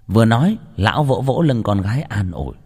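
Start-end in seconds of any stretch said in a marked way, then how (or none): none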